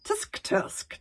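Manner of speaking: tut-tut. A narrator's reading. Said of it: "stuttered Alvin".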